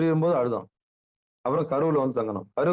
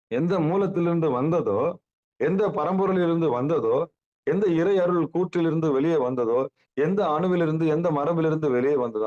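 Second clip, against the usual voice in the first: higher, rhythmic rhetorical build in parallel phrases; preaching; 5 semitones higher than usual. Acted. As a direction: preach it in raised, measured cadences. (உயர்ந்த குரலில் பிரசங்கம்)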